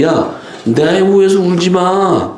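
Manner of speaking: high, drawn-out retold rebuke; mock scolding. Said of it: "그냥 막 뭐라 그러잖아요". (높고 길게 끌며 꾸짖는 흉내)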